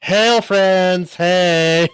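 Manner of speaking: high, hailing call; otter's greeting. Retold or imitated. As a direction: imitate a friend's cheery high greeting. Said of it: "this is exactly how he says it".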